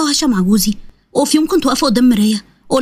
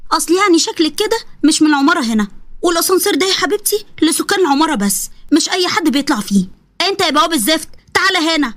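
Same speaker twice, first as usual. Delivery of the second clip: lightly raised, haughty lady's voice; snobbish woman; 4 semitones higher than usual. Acted. Suzy snubbing the women at the elevator, haughty and higher. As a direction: look down your nose at them.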